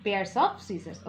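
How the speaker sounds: very slow, every word spelled out; slow dictation. Shown as a demonstration. Teacher dictating the phrase very slowly to students. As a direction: read it out word by word for the class. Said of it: "सबको समझ में आ गया".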